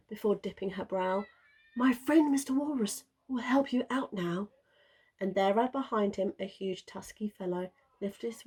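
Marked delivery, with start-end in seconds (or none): 1.8-4.5 sea unicorn. A narrator's reading. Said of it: "she sung".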